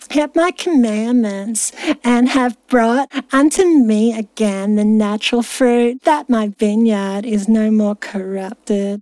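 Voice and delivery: slow, measured verse reading; scripture reading. Acted. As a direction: read it out like solemn scripture. Resumes reading scripture aloud.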